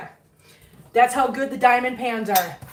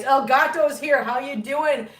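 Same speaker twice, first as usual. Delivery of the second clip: pet greeting; 3 semitones higher, slower than usual. Real, not acted. Greeting her pets.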